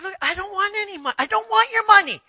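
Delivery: retold eager no-thanks; insistent refusal. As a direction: brush off the offer, pressing harder. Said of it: "I said".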